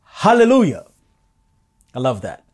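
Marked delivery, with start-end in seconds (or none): 0.0-0.9 high, loud cry of praise. Acted. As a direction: shout it up to heaven. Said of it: "crying out".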